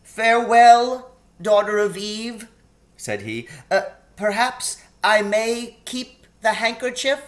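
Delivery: high, anxious faun voice; a fretful, sorrowful faun. A narrator's reading. Tumnus saying goodbye.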